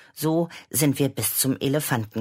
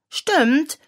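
high, louder eager yes; eager agreement; 14 semitones higher, 5 dB louder than usual. Acted. Children eagerly answering their mother, high eager agreement. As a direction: nod it out keenly. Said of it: "nickten ... eifrig".

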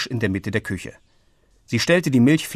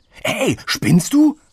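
slow, much higher, louder outraged cry; reproachful teen boy; 11 semitones higher, 5 dB louder, much slower than usual. A narrator's reading. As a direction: shout the accusation at his sister. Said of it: "rief Frank vorwurfsvoll". (Frank ruft empört und vorwurfsvoll)

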